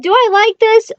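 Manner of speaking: a soaked fish offended; indignant fish. Acted. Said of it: "said our fish".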